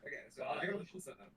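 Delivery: faint delayed echo of the stream; distant echoing playback; big hall echo. Real, not acted. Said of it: "It's a little echoey".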